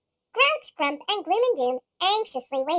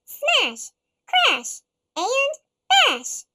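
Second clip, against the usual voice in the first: punchy, loud, raised voice; loud smash words; 5 semitones higher, 4 dB louder, much slower than usual. A narrator's reading. Narrator booming the monsters' smash, crash, bash. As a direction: bang out each word like a blow.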